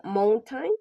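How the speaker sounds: first syllable of "mountain" stressed. Shown as a demonstration. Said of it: "The stress is on the first syllable".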